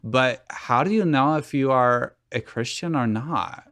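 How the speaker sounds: lightly voiced valley girl with odd Wiseau-like lilt; a hint of a whiny valley girl teen. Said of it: "like, half Valley Girl, half Tommy Wiseau".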